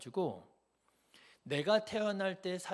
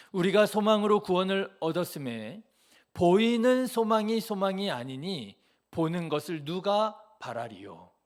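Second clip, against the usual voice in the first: solemn scripture reading; 7 dB louder than usual. Shown as a demonstration. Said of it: "여러분 한번 잘 들어보십시오".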